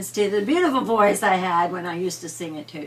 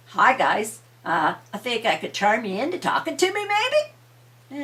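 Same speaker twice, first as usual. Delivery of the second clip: charming; 4 dB louder than usual. Acted. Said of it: "He's quite the charmer".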